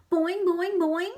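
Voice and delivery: high, loud twanging boings; frog twang. Acted. Og the frog reacting to the mess, loud high twangs. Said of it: "Og twanged".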